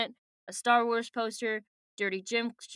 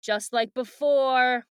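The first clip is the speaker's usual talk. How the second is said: mock realization; 2 semitones higher, 6 dB louder, much slower than usual. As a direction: stretch the words out with emphasis. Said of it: "And then I was like".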